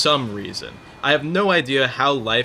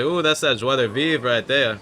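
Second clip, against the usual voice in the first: lightly imitated Cajun dealer accent; Cajun French. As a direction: do a casual Cajun accent impression. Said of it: "something else in Cajun French".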